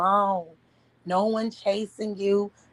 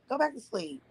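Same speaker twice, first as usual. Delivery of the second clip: soft; 5 semitones higher, 7 dB quieter than usual. Real, not acted. Soothing partner back to sleep.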